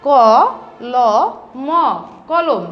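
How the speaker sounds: ক, ল, ম spelled slowly with gaps, then কলম; spelling Bengali letters aloud for children. Shown as a demonstration. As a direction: spell ক ল ম with a pause after each letter, then say কলম whole. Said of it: "কলম বানানটা আমরা একটু শিখি".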